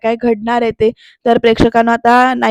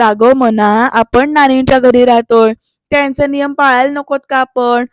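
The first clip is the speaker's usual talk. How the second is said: fed-up mimicking; 5 dB louder than usual. Daughter parroting her mother's lecture back at her, mildly exasperated. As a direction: parrot the familiar lecture with growing annoyance.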